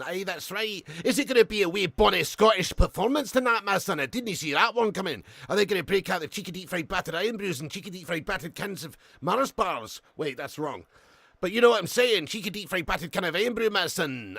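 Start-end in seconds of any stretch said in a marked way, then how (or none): 0.0-10.0 playful put-on Scottish patter; lightly hammed-up Scottish voice; mock Scottish accent. Puts on Scottish talk for Scotland. 11.4-14.4 playful put-on Scottish patter; lightly hammed-up Scottish voice; mock Scottish accent. Scottish patter resumed after aside.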